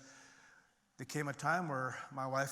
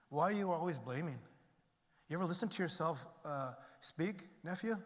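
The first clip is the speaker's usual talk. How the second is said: imitated uncle's telling-off, pitched up but not shouted; scolding; 3 semitones higher than usual. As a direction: chide a nephew in a raised, exasperated pitch. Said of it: "he basically scolded me".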